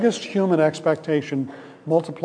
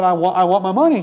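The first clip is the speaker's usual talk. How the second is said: angry demand; 3 semitones higher, 5 dB louder than usual. Retold or imitated. Creditor grabs debtor by throat.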